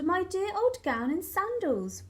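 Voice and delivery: joyful yell. A narrator's reading. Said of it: "he yelled".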